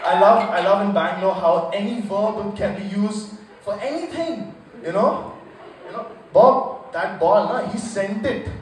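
loud, excited Indian English commentator; Bangalore accent. Retold or imitated. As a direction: rave like a Bangalore uncle about his cricket days. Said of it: "guy from Saint Mark's Road, Bangalore, saying".

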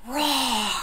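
playful drawn-out roar; a mild pretend dinosaur roar. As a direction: roar along with the kids. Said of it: "Can you all roar again?".

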